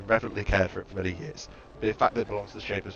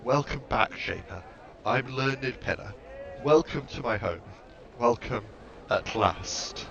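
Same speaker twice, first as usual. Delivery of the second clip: trembling voice; 2 semitones higher, slower than usual. Acted. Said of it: "With a trembling voice".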